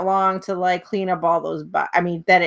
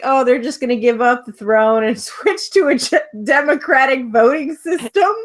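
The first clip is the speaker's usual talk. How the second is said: laughing; 4 semitones higher, 4 dB louder than usual. Retold or imitated. Mocking own naive belief.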